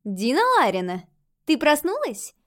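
put-on high, eager little girl; a bright childish ghost calling. A narrator's reading.

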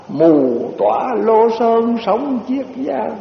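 slow falling close of the poem; recited verse, closing line. Shown as a demonstration. Monk closing the verse, slow and falling. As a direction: let "Lô" fall as the poem ends. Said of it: "người ta dịch ra cái bài này".

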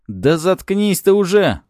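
high, loud, slow outburst; angry snort. A narrator's reading. Cop silencing his babbling partner, angry snort. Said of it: "фыркнул Лёха".

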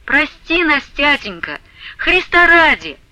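wailing for forgiveness at her father's feet; wailing plea. A narrator's reading. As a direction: beg her father, half keening. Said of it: "заголосила, наконец, Параша".

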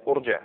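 ارجع opening on "u": urji'; damma on hamza. Shown as a demonstration. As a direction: start ارجع with "u". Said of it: "ضم او كسر". (ارجع بضم الهمزة)

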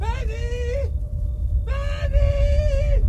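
screaming her name, very high and loud; frantic yell after a lost friend; desperate shout. Acted. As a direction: shout for her with all your breath. Shouting for Penny in panic.

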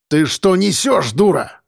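mayor roars at the journalist in mild mock rage; roaring mayor. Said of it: "взревел мэр".

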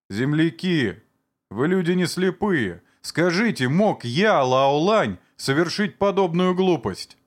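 high, pleading plea to the crowd; pleading appeal. Acted. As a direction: beg the villagers to believe you. (высокая взволнованная мольба к землякам)

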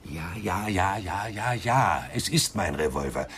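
fed up, finally snapping; exasperated. Acted. Suspect tired of the same question, exasperated outburst.

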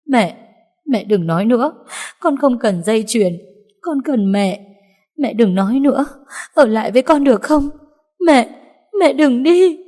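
high, loud, pleading; desperate begging. Acted. Daughter begging her dying mother to stay, high and loud. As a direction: plead with her not to die.

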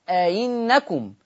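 أئنكم said slowly, the hamza eased toward ي; eased hamza demo. Shown as a demonstration. Teacher demonstrates the kasra hamza easing, slowly. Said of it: "فتتردد بين الهمزة والياء".

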